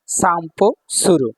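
slow, word by word; slow demonstration. Shown as a demonstration. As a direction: sound out each part for learners. Teacher builds the word part by part. (ধীরে ধীরে ভেঙে উচ্চারণ)

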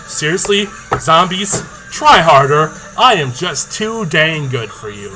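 loud, cocky taunt at the zombies; mock the zombies, loud and proud. Repeats his taunt to the zombies.

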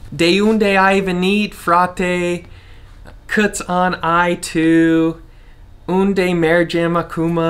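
mock American-accented Romanian phrasebook. Shown as a demonstration. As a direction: sound out the Romanian like a stiff American learner. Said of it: "When you should say".

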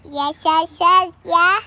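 loud eager yes. Pretend. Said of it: "Say, "Hey, yeah".

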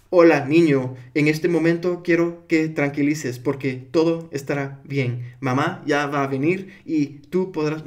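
put-on stiff, measured hypnosis-script delivery to a baby; manera equivocada de calmar. Shown as a demonstration. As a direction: recite it slowly and formally, without soothing. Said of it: "No, es". (recitado lento y formal, sin arrullar)

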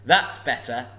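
loud, slow, looming dragon voice; a huge dragon toying with a thief; booming sly dragon; menacing dragon. Acted. Dragon speaks.

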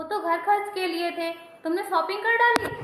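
mother-in-law yelling at the spendthrift bahu, angry; angry scolding. Acted. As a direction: snap at her for spending the house money. Mother-in-law scolds over shopping money.

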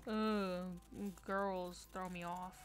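lightly played cool guy, slow and low; cool guy act. Player jokingly posing to Andy as a cool guy, slow. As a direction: drag it out like a too-cool dude. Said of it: "trying to act like one of those cool guys".

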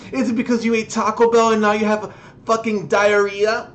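high taunting mock voice. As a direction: tease the crier. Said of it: "No, you stupid motherfucker".

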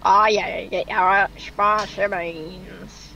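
slow cowboy drawl on spicy beans; demented cowboy. Pretend. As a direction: stretch it out, loopy cowboy. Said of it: "demented cowboy".

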